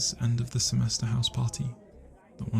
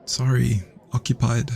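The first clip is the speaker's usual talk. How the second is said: louder, call through the door; 8 dB louder than usual. Acted. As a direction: shout at the intruder outside. Calling out to someone interrupting.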